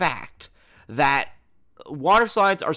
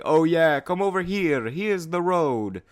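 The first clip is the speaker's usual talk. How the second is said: put-on light Italian accent, friendly; lightly put-on Italian accent; 4 semitones higher than usual. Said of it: "That's an Italian accent".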